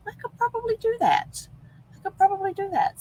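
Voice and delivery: high, bright-eyed repeat of the idea; excited realisation. Retold or imitated. Speaker recalling her sudden idea, excited. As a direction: say it like a sudden light bulb moment.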